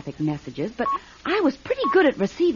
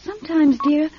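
tender hush; 5 semitones higher, slower than usual. Acted. Tender to comatose sister.

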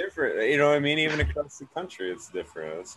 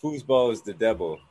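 Waterboy quote. Retold or imitated. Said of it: "that dude from, uh, Waterboy".

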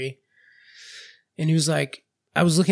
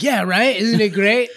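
fake enthusiasm; 6 semitones higher, 7 dB louder than usual. Faking enthusiasm about hated pie.

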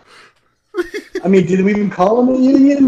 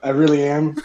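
stifled giggles; 3 semitones lower, 5 dB quieter than usual. Real, not acted. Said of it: "I'm trying not to laugh at that".

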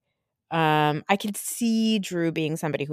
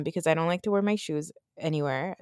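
ordinary delivery

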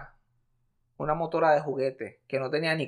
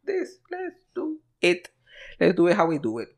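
playful mock voice; 2 semitones higher than usual. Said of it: "y dije".

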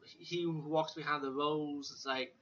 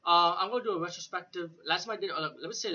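raised voice; 4 semitones higher, 6 dB louder than usual. Real, not acted. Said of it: "I hope my voice is loud enough".

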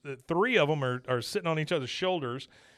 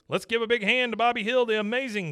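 much higher and louder showman hype; rally the crowd's applause; imitating a showman announcer; 9 semitones higher, 5 dB louder than usual. Announcer asks the audience to cheer the boy, high and loud. Announcer voiced in retold episode.

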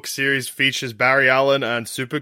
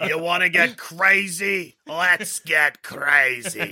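gruff lunch lady; 4 semitones higher, much slower than usual. Pretend. Joining the lunch lady bit.

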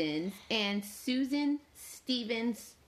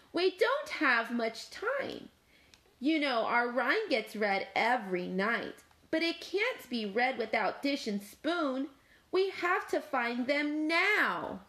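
Cat; 4 semitones higher than usual. Acted. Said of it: "Cat demanded".

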